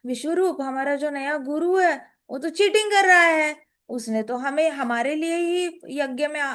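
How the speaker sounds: a threatened god fretting aloud, then a firm no; panicky Indra. Acted. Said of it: "ऐसे करके डर गया इंद्र".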